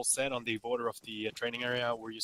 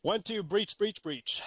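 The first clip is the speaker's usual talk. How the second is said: shouting breach; 7 semitones higher, 3 dB louder, much slower than usual. Real, not acted. Leading a breach in game.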